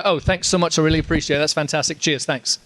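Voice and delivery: lightly imitated British politeness; polite thanks in borrowed British; picked-up British accent. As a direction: echo the fan's British accent. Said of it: "you pick it up".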